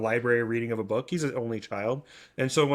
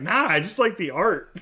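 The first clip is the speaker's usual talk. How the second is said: put-on higher, laughing through the kid's line; kid's innocent reply; 6 semitones higher, 3 dB louder than usual. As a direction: imitate the son's carefree answer while laughing. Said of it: "And he's like".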